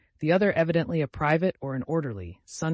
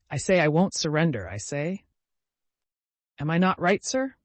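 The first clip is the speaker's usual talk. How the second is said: put-on drunken old man; 4 semitones higher, 5 dB louder than usual. A narrator's reading. Drunk Makar boasting.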